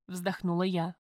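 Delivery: usual speaking voice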